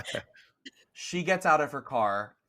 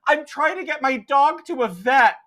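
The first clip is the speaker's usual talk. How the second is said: high, loud, slower call from the car; shouting driver; 12 semitones higher, 8 dB louder than usual. Acted. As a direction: shout it across traffic. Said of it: "a woman in a convertible say".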